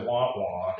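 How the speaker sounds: wordless cartoon grown-up drone, lightly done; Peanuts cartoon trombone. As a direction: lightly imitate a muted trombone's wah wah. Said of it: "trombone from the old Peanuts cartoon".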